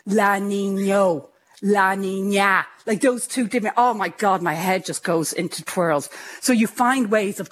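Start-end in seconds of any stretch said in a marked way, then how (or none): 0.1-1.3 "La Niño" drawn out slowly; struggling pronunciation. Shown as a demonstration. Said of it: "I still have trouble". 1.6-2.6 "La Niña" drawn out slowly; careful pronunciation. Shown as a demonstration. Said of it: "I still have trouble".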